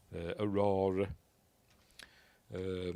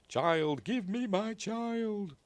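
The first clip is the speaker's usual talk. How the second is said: alien voice; 12 semitones higher, much slower than usual. Retold or imitated.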